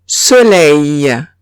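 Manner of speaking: soleil ending in eil, so-LAY; French soleil. Shown as a demonstration.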